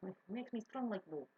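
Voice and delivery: lightly put-on Russian accent; joking Russian accent. Player joking around with a favorite accent, Russian accent. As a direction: play at a Russian accent for a laugh. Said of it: "Russian, which is my favorite one to do when I'm joking around".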